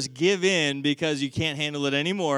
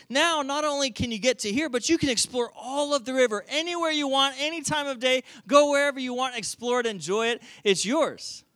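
higher, eagerly generous father; excited giving; 5 semitones higher, 3 dB louder than usual. Acted. Proud father rewarding his son with a boat, excited. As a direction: present a gift with mounting excitement.

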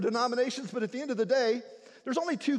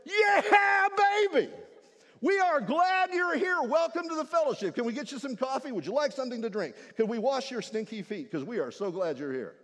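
enthusiastic greeter. Acted. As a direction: throw your arms open. Gospel church greets sinner gladly.

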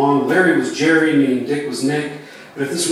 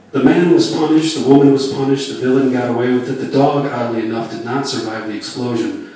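captain's PA announcement; 4 dB louder than usual. Acted. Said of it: "the captain continues".

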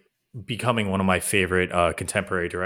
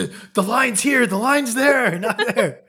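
coked-up script supervisor; 6 dB louder, slower than usual. Retold or imitated. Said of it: "All your notes would come back like".

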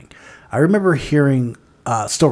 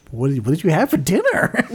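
uptalk; 3 semitones higher than usual. Retold or imitated. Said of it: "conversation with that guy".

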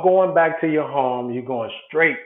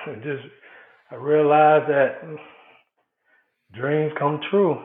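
choked up; slower than usual. Real, not acted. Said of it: "got a little choked up".

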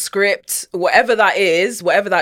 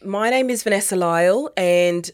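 Australian accent. Shown as a demonstration. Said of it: "Can you do Australian accent".

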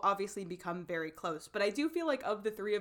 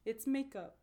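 quiet; 7 dB quieter than usual. Retold or imitated. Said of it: "he's like".

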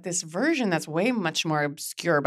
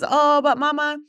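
put-on much higher, slow, sweetly earnest child voice; little boy; 12 semitones higher, 5 dB louder, slower than usual. Mom imitating her young son cheerfully reassuring her, high and slow. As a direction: drag it out like a hopeful little kid breaking good news.

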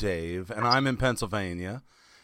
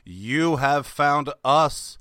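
slow announcer; slower than usual. Acted. Podcast intro announcement.

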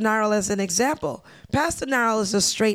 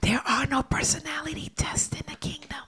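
playful conspiratorial whisper; whispered secret; 6 semitones higher, 6 dB quieter than usual. Pretend. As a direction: lean in and whisper it. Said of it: "Can I tell you a secret?".

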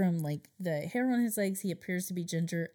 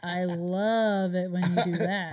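sarcastic; 5 dB louder than usual. Pretend. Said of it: "Just sarcastic porn".

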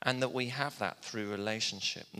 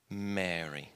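tender call; 6 semitones lower than usual. Retold or imitated. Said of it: "That was his voice".

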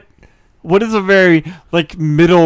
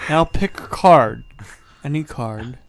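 card magician patter; 2 semitones higher than usual. Acted. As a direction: work the crowd like a sleazy card magician. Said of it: "a pedophile magician".

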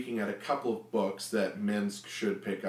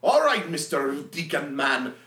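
louder brash warrior threat; threatening Minsk; 3 semitones higher, 5 dB louder than usual. Acted. Minsk threatens the deacon for information, loud bluster. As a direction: lean in and demand answers.

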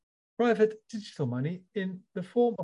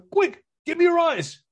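high, loud squeaky bunny voice; bunny grabbing its friend's eyes, squeaky cartoon voice; 13 semitones higher, 11 dB louder than usual.

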